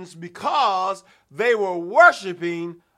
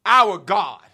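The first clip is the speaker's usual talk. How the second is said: leading the prayer; slower than usual. Shown as a demonstration. Preacher leading the congregation in prayer, chanting. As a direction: chant it for the church to echo. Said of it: "somebody ought to say that with me".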